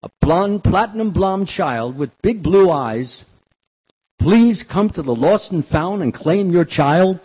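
slow, loud public-address read; loudspeaker announcement. Retold or imitated. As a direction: announce it over beach loudspeakers, slowly. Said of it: "they made this announcement".

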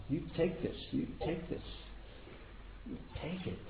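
gentle urging that fades out; fading coaxing. Retold or imitated. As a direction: coax him, fading to almost nothing. Parents urging him to take wealth.

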